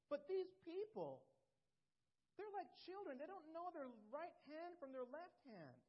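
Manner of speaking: God pleading with Jonah. Acted. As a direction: plead as God to a stubborn prophet. Preacher voices God explaining.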